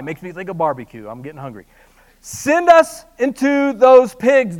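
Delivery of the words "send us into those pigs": begging demon. Acted. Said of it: "the spirit begged".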